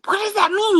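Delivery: high, baffled question; half-mocking disbelief at the news; confused surprise. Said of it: "I was like".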